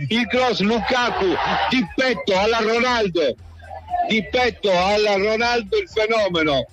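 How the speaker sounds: rapid excited goal call; breathless italian goal commentary. Acted. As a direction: call it live, rising.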